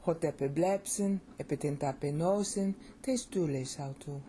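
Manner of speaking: Hotepeblepsin, epitentapenosin, testules autu in one rhythmic run; Greek with cadence. Shown as a demonstration. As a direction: give "Hotepeblepsin, epitentapenosin, testules autu" a steady beat, stressing blep. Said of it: "See, it's got cadence".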